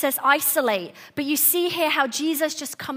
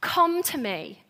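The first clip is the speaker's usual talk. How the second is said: slow, soft invitation; gently stretched, inviting them to rest; intimate; 5 dB quieter, slower than usual. Acted. Jesus offering rest to the weary, intimate. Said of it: "In intimacy".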